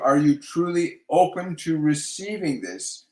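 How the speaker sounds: slow question leaning on "truly open"; stress on truly open. Real, not acted. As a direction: draw out and weight "truly open". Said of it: "they're really emphasizing the words truly".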